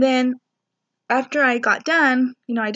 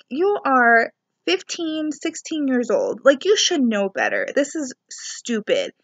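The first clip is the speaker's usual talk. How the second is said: put-on slow, pointed scolding of the teens; mock telling-off, words drawn out; retold scolding; 2 semitones higher than usual. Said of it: "I was like".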